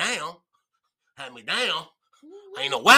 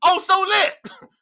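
drawn-out excited cry; 12 semitones higher, 4 dB louder, much slower than usual. Real, not acted. Brand shout while high.

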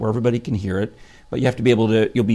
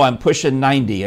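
put-on loud old lady voice; an elderly mother declaring her age; imitating Mom; 3 semitones higher, 5 dB louder than usual. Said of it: "I said".

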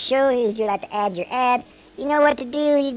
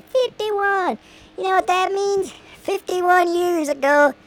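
higher, slower mock-grand announcement; mock dramatic; 9 semitones higher, slower than usual. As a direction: announce it like big news.

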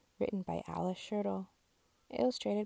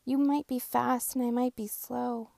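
higher truck voice, firm; Little Blue scolding; 5 semitones higher, 4 dB louder than usual. Acted. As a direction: gently scold the traffic jam.

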